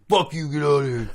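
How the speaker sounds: mock-irate Sloth-like dismissal; Brett the janitor. Janitor in the stall refusing help, mock-irate retort. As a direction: imitate the janitor swearing someone away. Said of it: "he was always swearing".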